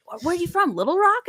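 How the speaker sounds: high-pitched, eager retold question; excited question. Woman asks fellow Arkansans where they are from, excited. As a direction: act out thrilled curiosity, voice way up.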